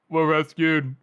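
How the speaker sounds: toneless mock announcement; deadpan quote. Cohost quoting Friendly looking up at rescuers, deadpan. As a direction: announce it without any excitement. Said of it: "in just the same tone".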